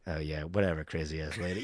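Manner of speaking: low, offhand brush-off; dismissive. Retold or imitated. Actor brushing off a bossy co-star, low and dismissive. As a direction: toss it away low under the breath.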